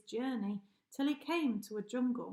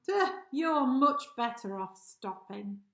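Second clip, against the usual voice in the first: lion calling out; 5 dB louder than usual. Acted. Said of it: "the lion called out".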